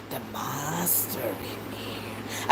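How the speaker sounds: mother imitates her daughter warning about the monster; child's voice. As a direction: drag it out like a scared toddler. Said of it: "She said".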